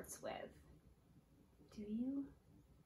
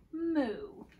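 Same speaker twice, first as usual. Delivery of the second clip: a playful moo, pitched up; mock cow moo; 6 semitones higher than usual. Teacher moos like a cow for the class. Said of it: "He can sound like a cow".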